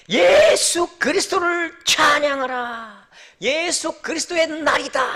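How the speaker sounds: high, ringing herald's cry; loud proclamation. Acted. Preacher heralding Christ to the congregation, high proclaiming shout. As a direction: cry it out high with stretched words. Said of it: "크게 외치거든요".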